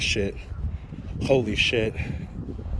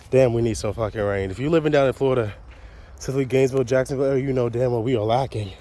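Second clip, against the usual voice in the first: panting between words after a climb; out of breath; faster than usual. Real, not acted. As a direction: talk while catching your breath. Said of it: "Sorry, still catching my breath".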